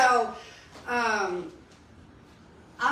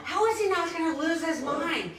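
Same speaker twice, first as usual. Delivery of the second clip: solemn quote; 6 semitones higher than usual. Retold or imitated. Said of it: "very solemnly looks and says".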